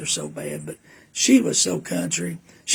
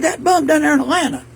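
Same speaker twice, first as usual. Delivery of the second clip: imitating mama; 10 semitones higher, 7 dB louder than usual. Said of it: "She said".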